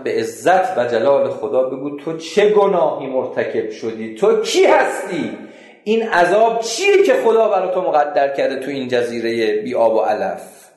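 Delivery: pressing and loud, calling out in God's name; loud demanding questions. Retold or imitated. Narrator confronting the cursed man, loud demanding. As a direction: demand an answer from the damned man.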